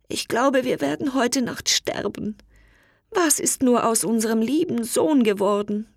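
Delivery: hint of crying, lost in the cold; tearful. Mother lost in the freezing forest, mildly tearful. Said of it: "die Mutter weinte".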